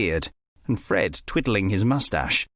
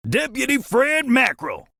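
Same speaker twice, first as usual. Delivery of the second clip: yelled; 11 semitones higher than usual. A narrator's reading. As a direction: bark the deputy's full name to wake him. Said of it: "he yelled".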